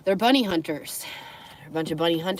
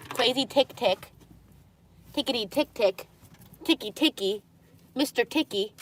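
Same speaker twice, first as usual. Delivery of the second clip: pet talk; 4 semitones higher than usual. Real, not acted. Baby talk to her dog.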